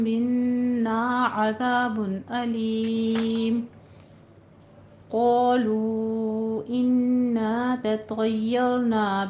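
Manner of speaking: slow chanted tajweed recitation; Quranic recitation. Shown as a demonstration. Teacher recites the full verse for the class, chanted. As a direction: recite it melodically, drawing out the madd. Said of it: "full tajweed recitation of verse".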